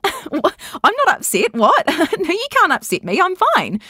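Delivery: high, giggly mock reassurance; giggling happy voice. Younger self protecting herself from being picked on, giggly. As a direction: laugh it off in a high voice. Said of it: "a giggling, happy voice".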